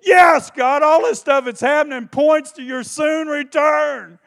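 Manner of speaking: high, loud shout of "yes"; joyful shout. Retold or imitated. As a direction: cry out to God in joy. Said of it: "And I thought".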